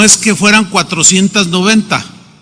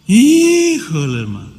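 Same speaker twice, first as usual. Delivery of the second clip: stunned relief; 2 semitones higher, 4 dB quieter than usual. Retold or imitated. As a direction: breathe out the relief of a forgiven debt. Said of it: "¿Cómo reaccionarían?".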